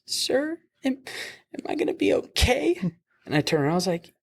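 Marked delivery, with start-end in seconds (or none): 0.1-2.8 put-on drunk patient asking. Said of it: "she's like".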